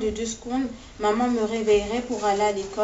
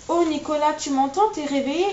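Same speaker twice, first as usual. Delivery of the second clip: higher and louder, relieved and overjoyed; joyful cry; 6 semitones higher, 3 dB louder than usual. A narrator's reading. Mother seeing her son wake up, crying out with joy, higher and louder. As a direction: cry out his name with tearful joy. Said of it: "hurle-t-elle de joie".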